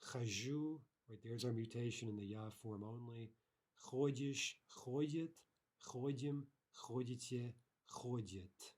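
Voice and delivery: Хожу, Ходишь, ходит with the stress moving across the forms; conjugation drill. Shown as a demonstration. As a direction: read the present forms of ходить one by one, slowly and clearly. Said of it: "this is a shifting stress verb".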